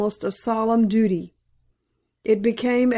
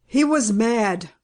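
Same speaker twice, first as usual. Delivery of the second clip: slow, steady and unmoved; terrible calmness; slower than usual. Acted. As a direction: state it with grave control. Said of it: "with a terrible calmness".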